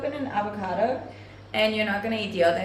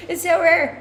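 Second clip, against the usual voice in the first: laughing; 6 semitones higher, 5 dB louder than usual. Real, not acted. Laughing about girl viewers.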